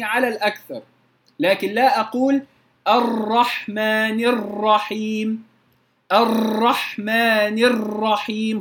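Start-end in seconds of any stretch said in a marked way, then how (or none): 2.9-8.6 الرحمن الرحيم slow, ر rolled many times; over-trilled ra. Shown as a demonstration. Teacher shows students the wrong rolled ra, slowly. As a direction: roll the ر in الرحمن on and on. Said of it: "خطأ".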